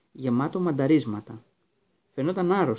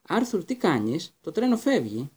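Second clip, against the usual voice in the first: a hint of an anxious mother, higher and slow; urgent wife; 4 semitones higher, slower than usual. Wife urging her husband to board, lightly voiced. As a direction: hurry him along from the train.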